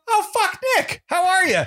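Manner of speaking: high-pitched, delighted recognition; retold surprised greeting. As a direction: greet an acquaintance you never expected to see. Acted surprise at meeting an acquaintance.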